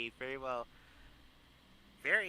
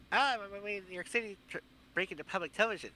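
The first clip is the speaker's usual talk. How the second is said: quick, higher-pitched cameo imitation; Big Bird; 6 semitones higher, faster than usual. Character passing through in a movie cameo, lightly imitated. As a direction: rattle it off high and fast, lightly voiced character. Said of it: "the Big Bird that just appeared".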